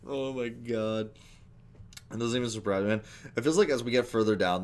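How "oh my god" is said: breathy unvoiced whisper; whispered disbelief. Real, not acted.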